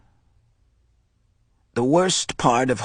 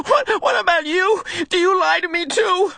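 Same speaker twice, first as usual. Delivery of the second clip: high, bitter, accusing; boy accusing his teacher, bitter; spat accusation. Acted. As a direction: spit the question at him. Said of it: "almost spat the question".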